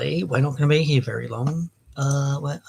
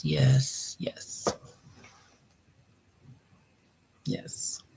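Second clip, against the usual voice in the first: whispered yes; whispering; 13 semitones lower, 7 dB quieter, much slower than usual. Shown as a demonstration. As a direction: breathe it without voice. Testing quiet mic voice.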